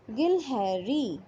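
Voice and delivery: गिलहरी drawn out very slowly; name गिलहरी slowly, syllable by syllable; slow naming for kids. Shown as a demonstration. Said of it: "किसका चित्र है ये?". (गिलहरी को धीरे-धीरे बोलना)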